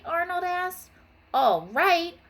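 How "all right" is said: high indignant sputter; high, rattled disbelief. A narrator's reading. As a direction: splutter out the near miss. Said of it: "Wanda sputtered".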